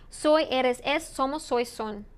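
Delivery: repeat-after-me drill; choral repeat. Shown as a demonstration. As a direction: clear drill forms for the class to echo. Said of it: "Say it with me, or repeat after me".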